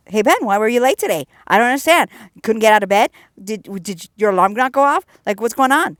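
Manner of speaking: mock nosy coworker grilling a late colleague. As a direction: mimic the coworkers badgering Ben about being late. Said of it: "They're all nosy".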